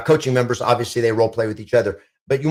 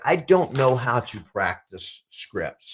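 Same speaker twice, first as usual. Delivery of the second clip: helpless agent; 3 dB quieter, much slower than usual. Retold or imitated. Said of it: "a lot of agents are like".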